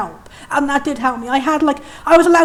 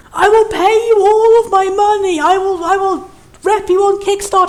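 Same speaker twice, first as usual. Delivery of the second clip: excited pleading; 4 semitones higher than usual. Real, not acted. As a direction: plead eagerly with the whole internet. Begging developers for a game.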